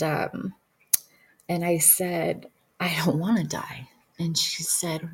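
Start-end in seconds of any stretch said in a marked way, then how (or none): 2.8-3.9 hushed, frightened plea; breathless frightened whisper; scared whisper. Retold or imitated. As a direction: whisper it like you're afraid to die. Dying, afraid, retold.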